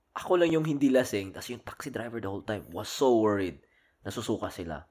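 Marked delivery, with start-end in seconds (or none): 4.0-4.8 whispered aside; soft whispered remark. Real, not acted. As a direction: hush it like a secret. Describing drunk friends vomiting.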